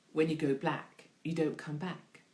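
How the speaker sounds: exaggerated street accent; put-on accent. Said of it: "I don't think they say it in quite that accent".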